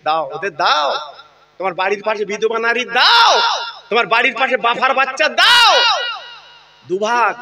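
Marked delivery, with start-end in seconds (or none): 1.6-5.7 raised, urgent preacher's call; preaching shout. Real, not acted. Preacher urging the crowd to give meat to widows and orphans, rising shout.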